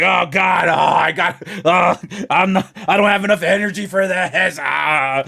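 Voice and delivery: tired groaning complaint; exhausted porn actor. Retold or imitated. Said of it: "he'd basically be like".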